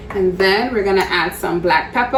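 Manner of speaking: playful rising lilt on pepper; odd sing-song. Real, not acted. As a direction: say pepper with a silly upward swoop. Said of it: "don't know why I said it like that".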